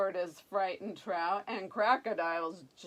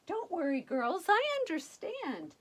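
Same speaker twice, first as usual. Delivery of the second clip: confident prince; 9 semitones higher, 3 dB louder than usual. Acted. Prince reassuring fairies.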